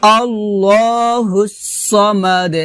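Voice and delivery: slow, drawn-out recitation; Quran recitation. Shown as a demonstration. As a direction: recite the verse slowly with long held vowels. Model recitation of next verse.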